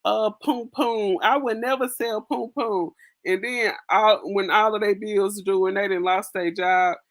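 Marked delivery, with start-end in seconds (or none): 0.0-2.9 mock prim vow. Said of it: "women ... talking about".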